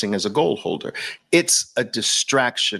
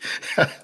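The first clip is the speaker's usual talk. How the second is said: laugh; 3 dB quieter than usual. Real, not acted. Laughs at own Brooklyn bit.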